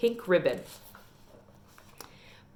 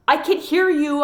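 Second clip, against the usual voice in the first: put-on higher, louder call back at the boys; hollering back; 7 semitones higher, 5 dB louder than usual. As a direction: holler it back over your shoulder. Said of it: "I hollered back at them".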